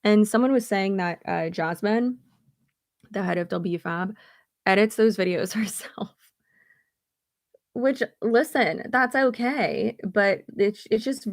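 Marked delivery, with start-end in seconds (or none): 4.7-6.1 whispering through a giggle; hushed, laughing aside; whispered laugh. Real, not acted.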